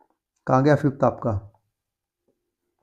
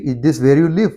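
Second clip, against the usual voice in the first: "is this where you live" rising on live; 4 dB louder, slower than usual. Shown as a demonstration. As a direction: lift the end like a yes-no question. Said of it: "up tone आती है". (उठती tone)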